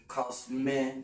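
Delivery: "cosmetic" slowly split as cos, me, tic; syllable by syllable. Shown as a demonstration. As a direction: say "cosmetic" in separated syllables with pauses between. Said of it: "we have three syllables here".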